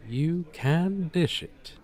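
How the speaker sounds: slow, savoured quotation; quoting a phrase. Acted. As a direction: lay the saying out slowly and relish each word. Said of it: "To quote an appropriate phrase".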